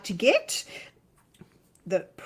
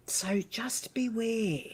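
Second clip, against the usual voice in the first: whispered warning; 7 dB quieter, slower than usual. Acted. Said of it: "She's put on her kindergarten teacher's voice".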